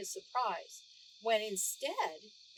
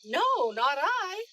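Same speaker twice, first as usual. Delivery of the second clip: slow guard denial; 7 semitones higher, 8 dB louder, slower than usual. A narrator's reading. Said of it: "shook his head and said".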